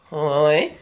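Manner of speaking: "Hoi" dipping then rising like a question; question-mark tone. Shown as a demonstration. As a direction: curl "Hoi" up at the end again. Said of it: "following the question mark".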